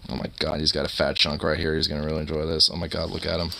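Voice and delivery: soft pet talk. Real, not acted. Cooing at the dog.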